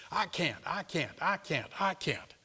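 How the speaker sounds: soft, slow I can't; slow mock whimper. A believer refusing the scripture, soft and slow. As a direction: drag it out helplessly. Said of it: "mock whining".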